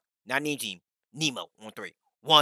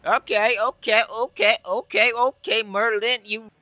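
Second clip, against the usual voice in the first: rapid string of high-pitched okays; high, repetitive hyped-up reaction; excited approval; 6 semitones higher than usual. Real, not acted. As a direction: cheer the teammate on in a high voice. Reacting to teammate Merlin's play.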